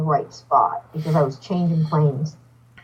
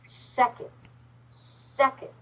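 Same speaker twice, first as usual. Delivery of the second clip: whispered, much softer; 6 semitones higher, 8 dB quieter, much slower than usual. Retold or imitated. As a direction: breathe the words out with no voice. Upset woman's broken retold words.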